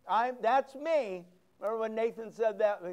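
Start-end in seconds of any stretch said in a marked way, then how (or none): 0.1-1.2 slow "that's me" with the weight on "me"; slow confession. Shown as a demonstration. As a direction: own it slowly, landing on "me". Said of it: "I am the man".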